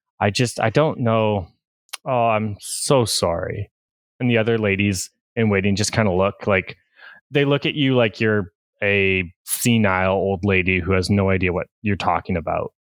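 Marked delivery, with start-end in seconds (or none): 0.2-3.7 sorrowful, near tears, almost crying, very slow. In a role-play, a mother has just urged her son to be nicer; sad, near tears. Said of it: "a little bit of like sadness and almost like a tear falls".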